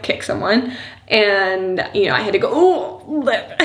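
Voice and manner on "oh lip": high laughing ouch; laughing yelp. Real, not acted. Reacting to daughter's kick, laughing.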